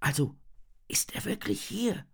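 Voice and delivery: hushed, whispery question. A narrator's reading. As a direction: drop to a cautious whisper. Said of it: "Sofort senkt sie die Stimme". (mit gesenkter Stimme geflüstert)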